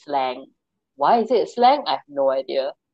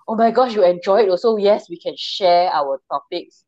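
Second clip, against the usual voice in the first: excited; 3 semitones higher, 5 dB louder than usual. Pretend. Imagined excited reply to fellow fan.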